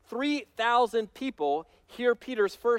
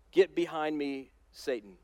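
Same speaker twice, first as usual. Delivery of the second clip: stern rebuke; 4 semitones lower than usual. Retold or imitated. Jesus rebukes Peter, low and grave. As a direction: drop it low and cold on Satan. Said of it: "he says".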